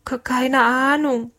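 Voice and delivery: high, slow stuttered denial; stammering. A narrator's reading. The short cook answers the angry captain, stammering. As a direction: trip on the first syllable, pitch up. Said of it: "stotterte der Kurze".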